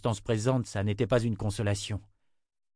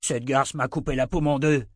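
aggrieved soldier; 4 semitones higher, 3 dB louder than usual. Acted. Wounded man complains.

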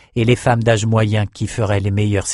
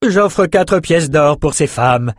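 slow, higher noblewoman's bid; Elsa bidding; 6 semitones higher, 4 dB louder, slower than usual. A narrator's reading. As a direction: lay out the offer slowly. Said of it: "dit Elsa".

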